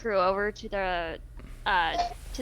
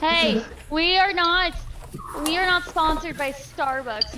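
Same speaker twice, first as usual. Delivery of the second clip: slow, raised, word-by-word denial; mock-official correction, drawn out; emphatic disclaimer; 5 semitones higher, slower than usual. Real, not acted. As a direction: spell out the denial firmly and slowly. Jokingly disclaims a sponsorship.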